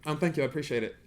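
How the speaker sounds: talking around a retainer; slightly lisped, retainer in mouth; wearing a retainer. Real, not acted. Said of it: "You talk really well with them".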